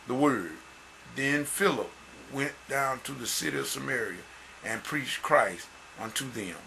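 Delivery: measured, emphatic Bible reading; deliberate public scripture reading. Acted. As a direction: read the verses out solemnly to the congregation. Reads scripture aloud.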